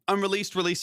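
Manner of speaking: hoarse right after coughing; choking on a drink. Real, not acted. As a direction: speak through a scratchy throat. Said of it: "Sorry, I'm choking on my water".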